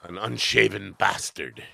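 slow, snooty Irish-tinged insult; lightly put-on Irish-like accent, drawn out; imitated Irish-sounding snob. Rich customer insulting the delivery man, snooty Irish-tinged accent. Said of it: "Was that an Irish accent?".

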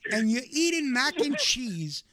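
put-on yelling at the kid in disbelief, half laughing; retold furious yelling. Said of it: "I scream bloody motherfucking murder".

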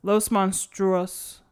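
"Monstruos" with a rolled Spanish r, said slowly; "Los Monstruos" slow and careful in Spanish; Spanish pronunciation. Shown as a demonstration. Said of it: "There goes your Spanish accent".

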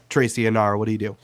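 normal talking voice

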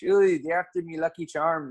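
a laughing, hammed-up Irish accent on "after me Lucky Charms"; half-joking Irish leprechaun voice; mock Irish accent. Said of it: "I think it would just turn into Irish".

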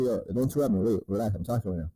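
flat and firm. Shown as a demonstration. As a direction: shut the interruption down without heat. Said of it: "You just flatly say".

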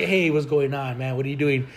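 lightly voiced suave meditation guide; a hint of mock-sexy smoothness. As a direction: casually imitate a suave dude. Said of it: "a real sexy voice".

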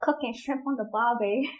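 shaky attempt at an Australian accent. Shown as a demonstration. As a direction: try an Australian accent, softly. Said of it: "I can't do Australian for shit".

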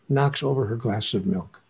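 ordinary talk, nothing marked

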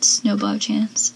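"snowball chance" said slowly, lingering on each word; savoring the phrase. Retold or imitated. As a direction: relish "snowball chance" like a favourite line. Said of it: "I love how she said".

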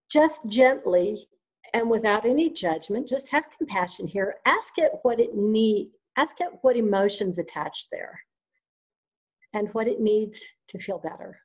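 calm guided visualization voice; guided meditation. Acted.

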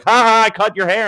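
high, loud mocking taunt; hammed-up high jeer; mock gloating. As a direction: gloat like a petty heel. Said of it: "They're like".

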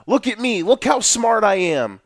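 lightly voiced show-off genius gloating; mocking smug coach. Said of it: "it's almost like they are doing it to pretty much say".

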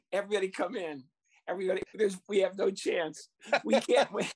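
hammed-up wailing coach, pitch climbing; mock sobbing lament. Coach pretends to cry to his team, mock sobbing. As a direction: fake despair to fool the kids. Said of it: "I started crying".

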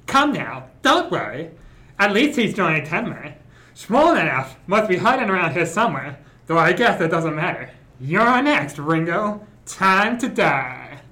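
Hannibal Lecter voice. Acted. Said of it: "do a transatlantic accent slash Hannibal Lecter voice".

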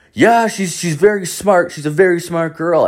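high imitated Indian-accented reply; Indian cab driver. Cab driver defending his daughter, high Indian-accented voice. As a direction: mimic an Indian driver insisting on his point. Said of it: "he's, like, this Indian guy".

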